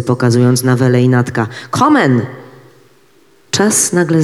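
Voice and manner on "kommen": urgent shout. A narrator's reading. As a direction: yell "Kommen!" with full force. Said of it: "zawołał do niego łysy".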